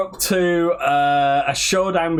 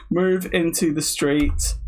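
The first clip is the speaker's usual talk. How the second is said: drawn-out words while typing; dictating slowly; slower than usual. Real, not acted. Typing a Coronation Street prompt, slow dictation. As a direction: dictate word by word.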